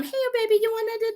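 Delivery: put-on high, sweet baby talk to a dog. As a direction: coo at the puppy.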